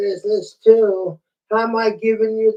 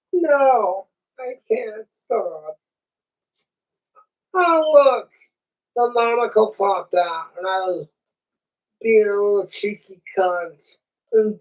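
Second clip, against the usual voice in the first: dummy voice. Acted. Dummy voice again.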